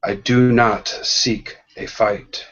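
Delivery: steady, even refusal; calm. Acted. Jedi faces armored warriors, calm and steady. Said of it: "You look at them calmly".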